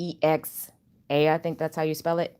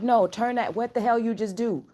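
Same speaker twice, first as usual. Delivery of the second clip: retold alarm; 5 semitones higher than usual. Retelling her alarmed reaction to device.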